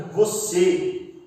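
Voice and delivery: "Você" with a closed final ê; closed ê sound. Shown as a demonstration. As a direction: say "Você" closing the last vowel. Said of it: "Ele dá uma pronúncia mais fechada".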